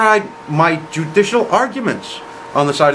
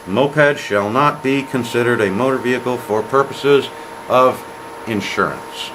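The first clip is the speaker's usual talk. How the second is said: imitating an even, monotone reading of statute; reading aloud; 4 semitones lower than usual. Prosecutor reading the insurance law over the judge, reading aloud. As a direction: recite it like legal text off the page. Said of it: "talking over him while he's reading".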